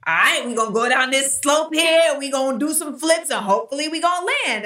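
breezy, fast mock gymnast voice; lightly voiced reckless athlete; casual daredevil. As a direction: toss it off like a carefree jumper. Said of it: "You're just like".

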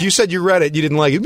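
high-pitched imitated accusation; grilling. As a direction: confront him as the irritated friend. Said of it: "she, she grilled me".

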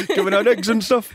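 put-on high Boston accent slipping into New Zealand; botched Boston accent. Co-host joins the bit, Boston accent gone New Zealand. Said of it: "Wait, that was New Zealand".

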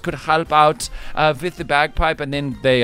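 Scottish-voiced news story reader; Scottish accent. Host reading a bagpipe news story, Scottish accent. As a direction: read the story in broad Scottish. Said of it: "doing the accent of Scotland today".

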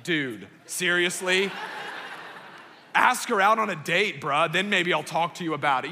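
voicing God as a buddy. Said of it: "God was like".

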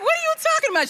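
high, incredulous protest; indignant surprise. Retold or imitated. Young mom protesting grandmother's tease, high surprise. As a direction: act offended and baffled. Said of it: "And I was like".

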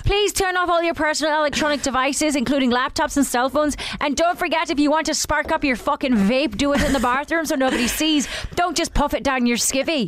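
cheeky Irish cabin announcer; playful Irish announcement; Irish accent. Acted. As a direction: carry the safety spiel on in an Irish accent. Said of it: "Now Irish".

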